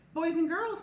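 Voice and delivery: teacher calling out. A narrator's reading. Teacher calling class to rug.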